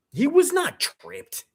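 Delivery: high, slow whiny mock voice of the coach; mocking Sean McDermott. Streamer mocking the Bills coach, high slow whine. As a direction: sneer his lame excuse in a high whine.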